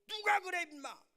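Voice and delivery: high, loud demand dropping at the end; mock angry father. Father demands who taught his son, loud acted anger. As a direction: act a dad blowing up. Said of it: "막 감정이 폭발한 거예요".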